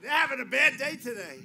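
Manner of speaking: loud mocking jab at protesters. Real, not acted. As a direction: taunt them loudly.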